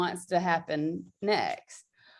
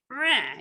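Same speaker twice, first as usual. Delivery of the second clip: mock roar; 4 semitones higher than usual. Shown as a demonstration. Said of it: "And so, like".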